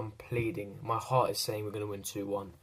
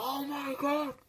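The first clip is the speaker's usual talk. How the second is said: shrieking very high with delight; high-pitched squeal; slower than usual. Retold or imitated. Watching the winning goal, a very high squeal of joy. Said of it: "my high-pitched voice".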